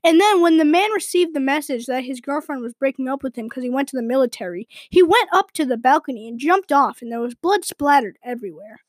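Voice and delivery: flat robotic narrator reading drama; deadpan like an AI narration voice; bland text-to-speech voice. Retold or imitated. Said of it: "the voice that it's telling it in is just so bland".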